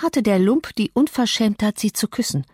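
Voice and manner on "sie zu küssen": ordinary delivery, nothing marked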